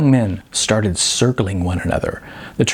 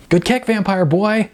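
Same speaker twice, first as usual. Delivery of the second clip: higher, cocky dude voice; a higher, taunting surfer-dude voice; cocky Sean; 10 semitones higher than usual. A narrator's reading. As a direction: brush off the hit with swagger.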